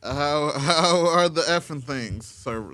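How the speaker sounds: slow Australian drawl; Australian accent. Acted. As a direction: lean into an Aussie accent. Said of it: "that went Australian".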